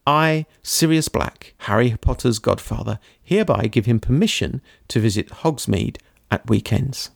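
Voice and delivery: steady read-aloud storytelling voice; story narration. A narrator's reading. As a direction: read the ending like an audiobook. Reads book ending aloud.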